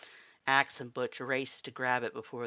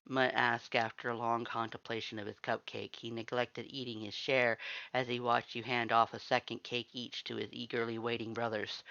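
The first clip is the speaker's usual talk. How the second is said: usual speaking voice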